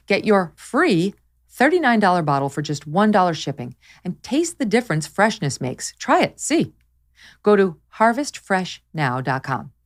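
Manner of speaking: upbeat sponsor read, slowing on the web address. Acted. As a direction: sell it like a radio spot. Reads sponsor ad.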